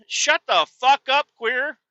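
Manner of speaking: high, loud angry snap. Acted. Telling off the pouch user, angry shout. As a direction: bark it at him. Ranting at the guy.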